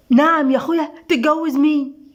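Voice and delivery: stretched, incredulous comeback; indignant disbelief. A narrator's reading. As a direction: demand to know who, taken aback. Mother startled by marriage news. (باستنكار ودهشة)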